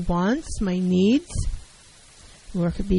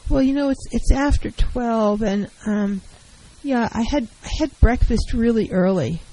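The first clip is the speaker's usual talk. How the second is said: circle around the request without asking; passive hedging. Shown as a demonstration. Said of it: "the failure to get to the point is passive".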